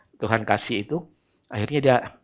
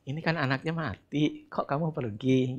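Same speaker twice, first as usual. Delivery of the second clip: gentle; 3 semitones higher, 6 dB quieter than usual. Retold or imitated. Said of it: "Mungkin halus".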